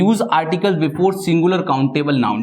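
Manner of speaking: very slow, word by word; slow rule read. Shown as a demonstration. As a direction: read the rule out slowly for the class. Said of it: "reading the rule slowly". (धीरे-धीरे नियम पढ़ना)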